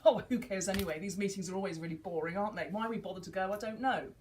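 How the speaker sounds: mock careless free child; carefree child. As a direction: shrug it all off lightly. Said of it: "Or it could be a free child".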